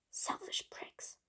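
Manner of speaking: whispered grumble under the breath; slow, very soft whispered insult; muttered aside. Acted. Villain grumbles about teammates who took credit, muttered aside.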